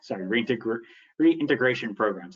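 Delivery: talking through sore, tight teeth; sore mouth from braces. Real, not acted. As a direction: speak carefully around aching braces. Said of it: "I just got my braces tightened".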